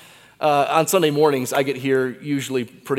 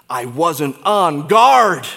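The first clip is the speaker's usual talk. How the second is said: mild regret; 4 semitones higher, 9 dB louder, much slower than usual. Pretend. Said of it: "say to us by way of explanation".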